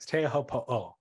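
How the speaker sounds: Teahupo'o with a separate final oh; extra O. Shown as a demonstration. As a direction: say Teahupo'o as tay-ah-ho-po-oh. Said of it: "You gotta add the extra O".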